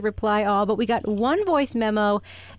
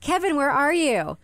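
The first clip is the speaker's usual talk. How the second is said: higher calling out, ending in a laugh; parroted calling out; 5 semitones higher than usual. Pretend. Host plays the parrot calling for Kevin, higher. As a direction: call through the house, amused. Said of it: "I think the parrot would say".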